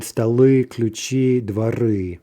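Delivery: "Stoли, ключи, дворы" each stressed on the last vowel; stress on endings. Shown as a demonstration. Teacher giving plural examples, "Stoли, ключи, дворы" stressed on the endings. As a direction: hit the final syllable of "Stoли, ключи, дворы". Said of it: "That ending is stressed".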